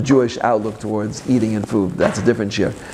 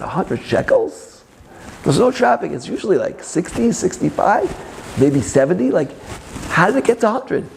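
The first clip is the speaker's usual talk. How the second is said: indignant disbelief; 5 semitones higher than usual. Retold or imitated. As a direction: balk at the fare as if robbed. Indignant at taxi fare.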